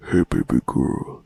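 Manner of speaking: low, slow put-on deep voice; hammed-up deep sultry greeting; mock Roblox voice reveal. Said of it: "those Roblox voice reveals where they're like".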